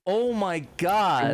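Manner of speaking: slow, high, stretched-out disbelief; real astonishment; stunned gasp. Real, not acted. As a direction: let the shock drag the words out. Reacting to the donation.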